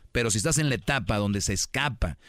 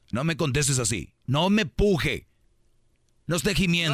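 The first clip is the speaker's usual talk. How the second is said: exasperated grandma scolding; 4 semitones higher than usual. Retold or imitated. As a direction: scold the kid like an old-school mom. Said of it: "¿Qué te decían antes?".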